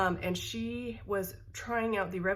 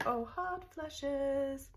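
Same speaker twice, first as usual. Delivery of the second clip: drawn-out, high, slow groan; exasperated groan; 7 semitones higher, much slower than usual. Real, not acted. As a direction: moan it out, fed up with the heat. Complaining about hot flashes.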